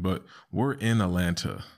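ordinary talk, nothing marked

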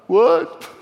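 big man caught off guard, shocked; startled what. Retold or imitated. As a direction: jolt up in disbelief. Shocked man hearing he's lost.

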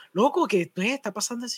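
hushed question to a friend; confused aside. Retold or imitated. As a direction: softly retell puzzled movie-theater chatter. Quotes confused aside to movie companions.

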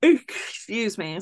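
words stretched through a yawn. Real, not acted. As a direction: say it mid-yawn. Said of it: "Sorry, I keep yawning".

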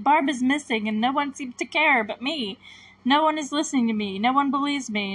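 lightly acted pleading complaint; mock argument, mildly exasperated; retold arguing. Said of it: "like, arguing".

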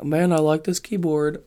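a lightly voiced buddy, laid-back and pleased; imitating Nick. Vlogger mimicking his friend playing VR chat, mild mock voice. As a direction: slip into a friend's easygoing voice, only a little. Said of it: "He's like".

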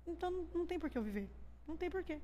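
soft, hushed voice of giving up; quiet despair. Retold or imitated. Woman recalling her lowest thought, quiet despair. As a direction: confess it softly to yourself.

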